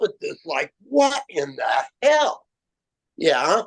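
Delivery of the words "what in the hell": slow shouted disbelief; amazed shout. Retold or imitated. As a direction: cry out in disbelief at the sky. Bewildered by swarming crows.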